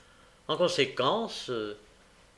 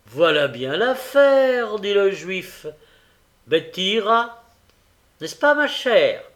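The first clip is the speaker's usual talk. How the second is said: high, loud, pleased proposal; scheming old man; 6 semitones higher, 9 dB louder, slower than usual. A narrator's reading. The Jew volunteers Betty for the errand, high and loud. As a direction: put the job to her loudly and brightly.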